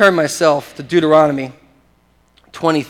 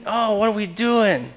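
imitated cry of distress; 5 semitones higher, slower than usual. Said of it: "They were crying out".

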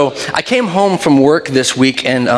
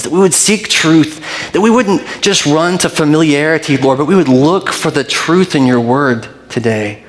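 prayer. Acted. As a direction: pray over the church sincerely. Leads congregation in prayer.

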